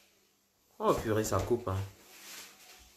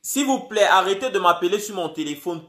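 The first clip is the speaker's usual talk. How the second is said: raised, firm plea to stop calling; loud plea; 4 semitones higher, 6 dB louder than usual. Real, not acted. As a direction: tell the callers off, loudly. Streamer exasperated at callers interrupting. (ton fort et exaspéré)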